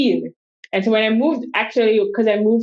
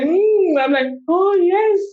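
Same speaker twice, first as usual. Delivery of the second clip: coy pride; 10 semitones higher than usual. Retold or imitated. Proudly owning the southern label.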